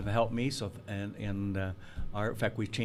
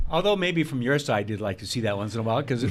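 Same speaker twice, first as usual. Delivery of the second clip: joking through a laugh, louder; 4 semitones higher, 9 dB louder than usual. Real, not acted. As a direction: tease him while laughing. Teasing joke about billable hours.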